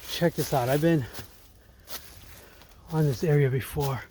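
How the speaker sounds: winded from the climb, puffing; breathless after hiking uphill; out of breath. Real, not acted. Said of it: "I'm a little out of breath".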